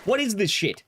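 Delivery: disgusted disbelief. Retold or imitated. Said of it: "I'm like".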